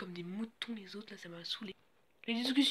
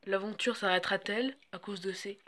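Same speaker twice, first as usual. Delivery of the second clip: voice-over narration; 3 dB louder than usual. Acted. Reality show voice-over.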